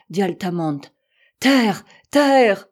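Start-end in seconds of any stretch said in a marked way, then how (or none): 1.4-2.7 high, loud insistent cry; unshakable conviction. A narrator's reading. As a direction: declare it, admitting no doubt. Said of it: "avec une inébranlable conviction". (cri fort, aigu, plein de conviction)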